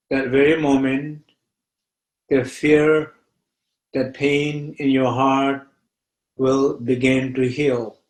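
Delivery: unhurried meditation teacher with long pauses; guided meditation. Real, not acted. Teacher guiding listeners to feel fear in the body, meditative.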